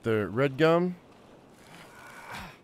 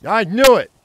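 frustrated yell; 9 semitones higher, 13 dB louder than usual. Real, not acted. Sudden damage in survival game.

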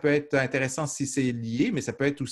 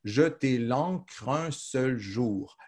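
very slow, "jeter" given the weight; slow verse recital; much slower than usual. Shown as a demonstration. Teacher reciting the end of the verse, very slow. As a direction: lean on "jeter" and let the line settle. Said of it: "Vous voyez comment?".

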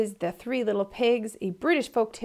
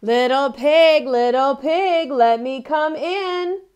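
loud, slow, higher wolf call; 5 semitones higher, 11 dB louder, slower than usual. Acted. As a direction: boom it out like the big bad wolf at the door. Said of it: "The wolf called".

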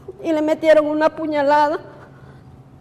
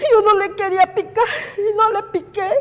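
higher, tearful and breaking; choking out the words through tears; crying; 5 semitones higher than usual. Real, not acted. Widow insisting she did not stab him, crying. Refusing to stab her husband.

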